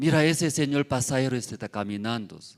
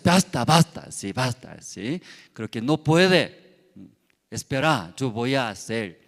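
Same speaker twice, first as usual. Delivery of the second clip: firm basta; 5 dB louder than usual. Acted. Sun telling the cloud to stop, loud and firm. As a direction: stop the cloud and take over.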